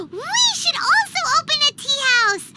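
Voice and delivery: gasp, then eager rising announcement; a sudden brilliant plan; excited idea. Acted. Paimon pitching a tea house, excited.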